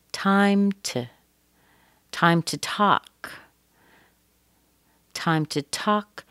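weak brief "to" between "time" and "talk"; short TO. Shown as a demonstration. Teacher shows the structure word, short TO. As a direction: reduce "to" to tuh, holding "time" and "talk". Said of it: "To is short".

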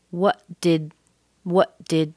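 "What did" linked with a held T; connected T and D. Shown as a demonstration. Teacher connects the sounds, holding T into D in "What did". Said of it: "that's connected because the T and the D".

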